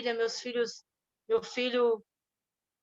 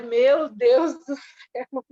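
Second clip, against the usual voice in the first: stunned exclamation; 5 dB louder, much slower than usual. Retold or imitated. Stunned by her son's words.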